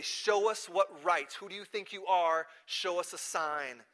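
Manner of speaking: slow, emphatic challenge; demanding. Retold or imitated. Challengers ask Jesus for a sign, demanding. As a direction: demand it phrase by phrase, stretched out.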